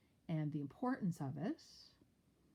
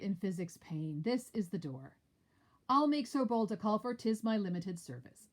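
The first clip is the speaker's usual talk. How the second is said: lightly voiced dialogue, a little higher; acted Shakespeare reading; 4 semitones higher, 6 dB louder than usual. Teacher reading Macbeth scene, lightly acted. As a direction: read the lines as the characters.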